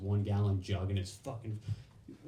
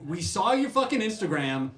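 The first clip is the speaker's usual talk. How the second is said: louder, higher insistent recruiter; exasperated recruiter; 7 semitones higher, 6 dB louder than usual. Retold or imitated. Recruiter insisting they saw his Instagram, louder exasperated. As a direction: push back hard, fed up.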